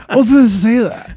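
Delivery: put-on high whiny child, laughing; little kid voice. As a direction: act like a sulky four-year-old. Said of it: "I've been around four-year-old too long".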